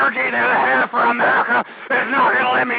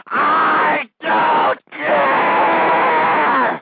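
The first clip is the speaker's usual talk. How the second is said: drawn-out shout; 2 semitones higher, much slower than usual. Acted. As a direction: stretch the yell out. Ranting host hits peak.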